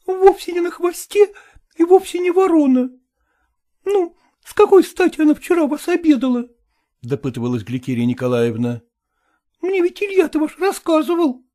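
high, reproachful woman's voice; jealous wife. A narrator's reading. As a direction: accuse him in a high woman's voice. (высокий упрёк ревнивой жены)

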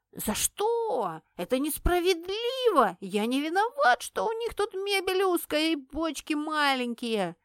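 сильно выше, обиженно-возмущённо; протестует против диеты; возмущённо взвился. A narrator's reading. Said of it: "взвился Шнырь". (взвился с обидой)

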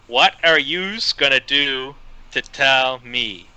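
put-on a light, slow Boston accent. Host quoting the greaser in a light slow Boston accent. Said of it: "he goes full-on Boston accent".

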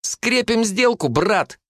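high, slow, cocky sealing of the deal. A narrator's reading. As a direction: seal it with bravado. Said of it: "добавил уже увереннее".

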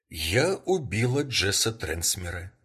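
"Я убила Джесса Трансмера" repeated evenly at normal level; calm repeat. Acted. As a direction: repeat it calmly, no push on "убила". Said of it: "всё так же спокойно повторила".

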